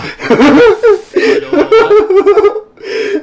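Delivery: laughing hard, high and loud; loud high laughter. Real, not acted. Bursts out laughing.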